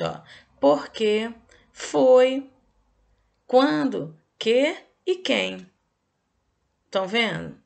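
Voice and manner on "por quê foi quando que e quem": louder, higher questioning tune, slowing at the end; question intonation. Shown as a demonstration. Teacher demonstrating question intonation for pupils, loud and rising. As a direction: ask each word as a real question. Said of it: "peguei aqui também na internet".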